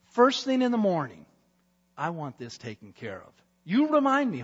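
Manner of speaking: lightly voiced king giving orders; commanding king. King ordering his servant, lightly voiced. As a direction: give firm orders for morning.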